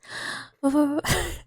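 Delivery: failed rolled R breaking into laughter; attempted R roll. Shown as a demonstration. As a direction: try to trill an R and laugh. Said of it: "don't even know how to try".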